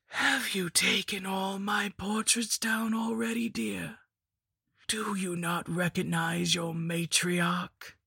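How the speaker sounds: put-on a creeping old crone's whisper; witch voice. The hag speaks after a cackle.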